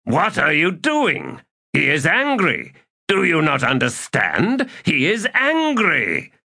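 high-pitched, alarmed call after someone; surprised calling out. A narrator's reading. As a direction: call out behind her in startled disbelief. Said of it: "His voice sounded surprised as he called out behind her".

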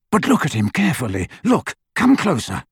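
eager father, rising in pitch; pushing his son to look closer, thrilled; a father too excited to wait. Acted. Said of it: "so excited".

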